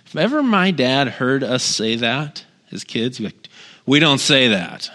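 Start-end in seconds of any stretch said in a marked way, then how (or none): 3.8-4.9 lightly voiced stern dad, drawn out; slow, mild imitation of a firm father. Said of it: "he had, like, dad voice".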